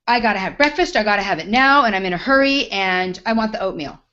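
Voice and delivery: pushy, loud demanding diner; loud mock entitled customer. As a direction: imitate the entitled customer in a hurry. Demanding customer voiced in story.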